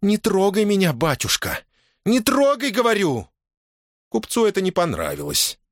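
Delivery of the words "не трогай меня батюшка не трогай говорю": Дашутка warning the merchant away; threatening. Acted. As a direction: warn him off, ready to fight. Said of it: "она угрожающе кинула".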